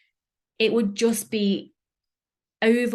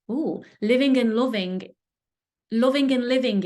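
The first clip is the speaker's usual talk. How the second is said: "living and loving" tasted, a touch louder, relishing each word; enjoy "living and loving" like a treat; savoring; 3 semitones higher, 3 dB louder than usual. Real, not acted. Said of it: "oh, that's a nice word".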